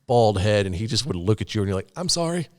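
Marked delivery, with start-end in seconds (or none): 1.9-2.5 timid sorry. Retold or imitated. Intimidated reaction to scary guy.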